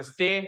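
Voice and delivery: स्टे said on its own as one syllable; स्टे isolated for practice. Shown as a demonstration. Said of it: "तोड़ के बोलना".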